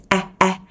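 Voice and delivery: A as an open front ae; smiling ae vowel. Shown as a demonstration. Teacher demonstrates the vowel to learners, smiling A. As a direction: spread the lips for each short A. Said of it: "miệng cười nha".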